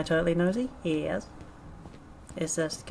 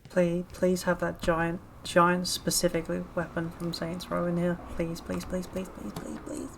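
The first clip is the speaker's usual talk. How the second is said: mock begging. Real, not acted. Begging the game for weapon.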